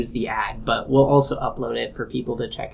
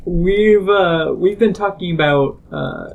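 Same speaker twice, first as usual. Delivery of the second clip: press release style; 5 semitones higher, 4 dB louder than usual. Pretend. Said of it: "press release style".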